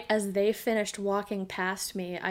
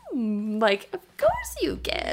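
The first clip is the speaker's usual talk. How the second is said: creature voice; slower than usual. Retold or imitated. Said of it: "do the voice".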